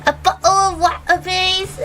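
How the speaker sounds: laughing through a mock British "A bottle of water, please"; giggly put-on British accent, T dropped in "water". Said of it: "Give us your British accent".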